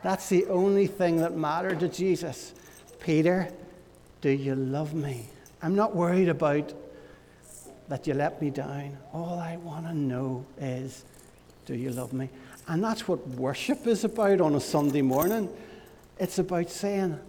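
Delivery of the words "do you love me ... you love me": soft, gentle and understated; tender question. Retold or imitated. Jesus gently asking Peter, a soft tender question. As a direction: ask it kindly, without blame.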